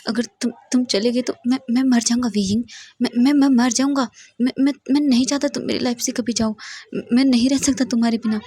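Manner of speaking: a lover crying, begging not to be left; tearful pleading. Acted. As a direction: beg her not to leave, voice breaking. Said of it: "वांग जी बहुत बुरी तरह से रो रहा था".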